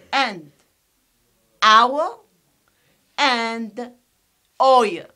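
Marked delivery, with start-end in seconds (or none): 1.6-2.2 "our" loud, higher, rising "ow-uh"; triphthong pronunciation. Shown as a demonstration. Teacher listing five triphthongs, "our" as rising "ow-uh". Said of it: "these are the five triphthongs". 4.6-5.0 "oy" loud, as "oy-uh"; triphthong pronunciation. Shown as a demonstration. Teacher finishing five triphthongs, "oy" as "oy-uh". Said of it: "these are the five triphthongs".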